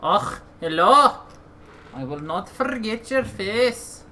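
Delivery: casual Scottish-tinged greeting; Scottish accent. Retold or imitated. Gamer greeting a game character in a mock Scottish accent. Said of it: "we'd have an accent like this".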